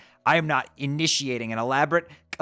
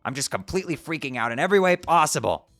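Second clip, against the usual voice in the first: distraught; 4 semitones higher than usual. Acted. Grieving friend's loss.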